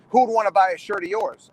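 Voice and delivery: mock put-down, voice up a little; dismissive put-down. Wrestler mimicking those who beat down the kids, dismissive. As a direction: belittle them with the question. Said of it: "they're beating down these kids".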